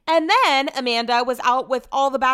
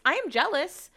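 higher, jealous whine; 5 semitones higher than usual. Real, not acted. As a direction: let the jealousy show. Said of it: "can you hear it in my voice".

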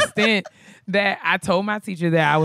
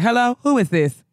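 high, demanding phone greeting; interrupting mother; 6 semitones higher, 4 dB louder than usual. Retold or imitated. Mother picks up the extension mid-call, demanding. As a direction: cut in like a nosy mom.

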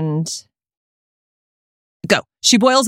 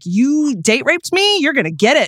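mock vengeful threat; 5 semitones higher than usual. Acting out avenger in film clue.

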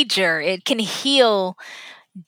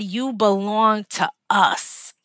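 tender repeat; slower than usual. Retold or imitated. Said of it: "And when he said".

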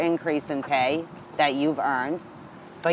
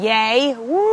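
high, loud yay and a long whoop; celebratory cheer; 8 semitones higher, 6 dB louder than usual. Real, not acted. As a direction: cheer out loud, voice soaring into a drawn-out woo. Cheering the news of the signing.

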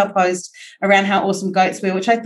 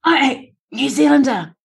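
higher, emphatic mock protest; mock-offended correction; 4 semitones higher than usual. Real, not acted. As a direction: playfully object and correct them. Correcting being called Australian.

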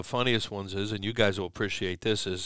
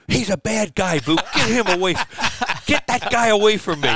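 frightened plea; 9 semitones higher, 8 dB louder than usual. Retold or imitated. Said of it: "and I went".

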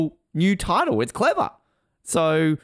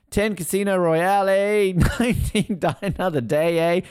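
higher, singsong Australian with tagged-on "eh"; really Australian; 5 semitones higher than usual. Pretend. Host recapping Bond rankings in exaggerated Australian. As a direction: ham up the Australian, lifting each title. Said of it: "He got really Australian towards the end".

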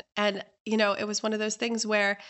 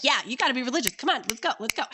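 higher, insistent hustling; pushy urging; 4 semitones higher, much faster than usual. Acted. Pushy host urging guest to be religious, eager hustling. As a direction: chivvy them along eagerly.

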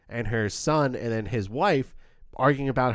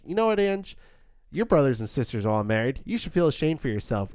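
acted retort; 3 semitones higher than usual. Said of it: "Marty gives a great response back".

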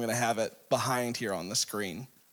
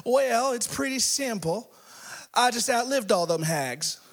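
put-on high old-lady punchline voice; little old lady; 9 semitones higher than usual. Old lady explaining herself to the pastor, high voice. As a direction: answer higher, as an elderly woman. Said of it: "little old ninety-three-year-old lady".

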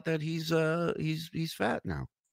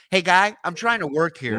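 louder, higher mock complaint; calling out; 6 semitones higher, 6 dB louder than usual. Host shows caller what to yell at buddy, mock annoyed. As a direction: call out to someone in the next room. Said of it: "took one headphone off and go".

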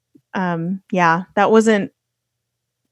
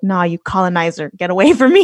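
mock rebuff. Retells rebuffing a man's advances.

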